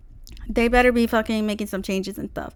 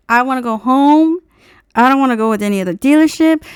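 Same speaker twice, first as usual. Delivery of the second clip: frustrated whine; 3 semitones higher, 9 dB louder than usual. Retold or imitated. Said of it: "I was furious".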